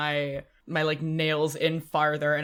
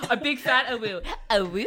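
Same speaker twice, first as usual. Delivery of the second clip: howling like a wolf pup; 7 semitones higher than usual. Retold or imitated. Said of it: "That was so cute".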